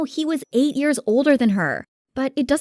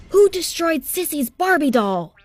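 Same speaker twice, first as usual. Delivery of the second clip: higher, moderately raised scolding voice; screaming angry dad; 7 semitones higher than usual. A narrator's reading. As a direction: demand a culprit, pitched up. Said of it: "he screamed at us".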